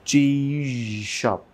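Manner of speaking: চিজ শপ said very slowly, each sound held apart; slow demo of চিজ শপ. Shown as a demonstration. Teacher breaking চিজ শপ into slow clear sounds. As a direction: stretch চিজ শপ out so the zh is heard clearly. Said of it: "আগে জ sound clear করতে হবে".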